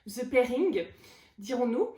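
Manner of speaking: hammed-up French accent on the English title; playful French accent. Shown as a demonstration. Vlogger mocks own English, thick French accent. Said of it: "je m'excuse pour mon accent anglais".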